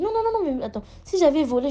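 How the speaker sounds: high, loud rush of "non, non, non"; panicked denial. Retold or imitated. The accused friend protests loudly to the guard, panicked and high. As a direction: squeal the denial like he's cornered.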